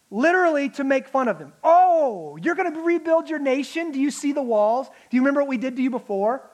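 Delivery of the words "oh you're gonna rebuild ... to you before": a light sneering taunt, voicing the enemies; mocking taunt. Enemies taunting Nehemiah's builders, mild mocking sneer. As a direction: scoff at the builders. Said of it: "They're mocking them".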